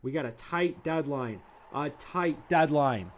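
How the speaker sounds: hyped rant. Acted. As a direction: pump yourself up. Hyped rant about speed.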